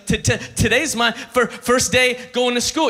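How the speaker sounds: a light, stammering little kid, barely voiced; imitating a five-year-old. Pastor mimicking a neighbour's excited five-year-old, stammering. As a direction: mildly mimic a child's stutter. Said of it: "You know how five-year-olds talk?".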